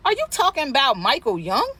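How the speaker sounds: nosy stranger fishing for names, falsely innocent; fake innocent question. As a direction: play dumb to fish for gossip.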